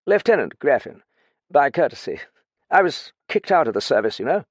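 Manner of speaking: lightly voiced boozy ex-officer; drunk lieutenant.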